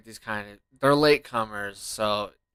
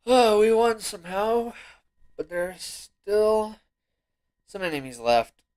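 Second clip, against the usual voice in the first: excited; 10 semitones higher, 11 dB louder, slower than usual. Real, not acted. Surprised win.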